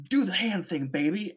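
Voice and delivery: high, playful coaxing; Carl Weathers. Retold or imitated. Man asking Baby Yoda for magic, high playful coaxing. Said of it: "Carl Weathers goes to Baby Yoda".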